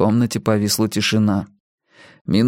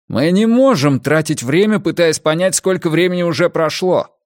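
raised, urgent protest; higher voice, frustrated and pressing; exasperated; 7 semitones higher, 3 dB louder than usual. A narrator's reading. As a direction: cut through the panic insistently. Panicked quarrel, pounding the table.

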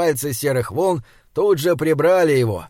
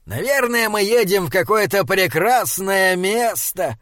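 hopeful; 4 semitones higher than usual. Acted. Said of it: "с надеждой сказал Фьялар".

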